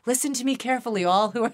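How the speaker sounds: hammed-up sermon voice, mock-solemn; grand heavenly proclamation. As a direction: proclaim it like a prophet addressing the multitudes. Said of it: "I keep looking up".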